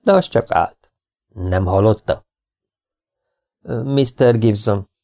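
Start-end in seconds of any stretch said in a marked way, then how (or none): 3.8-4.9 slow, musing address; drawing out the name while thinking; thoughtful. Acted. Salesman addressing sheriff Gibson, slow and thoughtful. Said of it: "mondta elgondolkodva".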